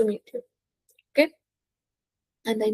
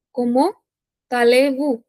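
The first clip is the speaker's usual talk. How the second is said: "Comment", rising, pause, then "allez-vous"; two-part teaching breakdown of "Comment allez-vous"; word by word. Shown as a demonstration. Teacher dictates phrase in pieces.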